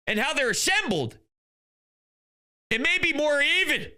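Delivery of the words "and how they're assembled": ordinary talk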